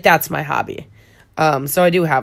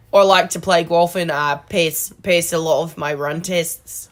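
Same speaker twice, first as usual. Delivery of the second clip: lightly put-on Australian accent; Australian accent attempt. Shown as a demonstration. Fixing a botched accent attempt, Australian accent. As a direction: have another go at Australian. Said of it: "The friends didn't sound right".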